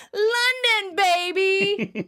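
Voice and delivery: high, loud catchphrase shout. Retold or imitated. Joey says it in Chandler's face, loud and excited. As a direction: blare it right into someone's face. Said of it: "says it louder and in his face".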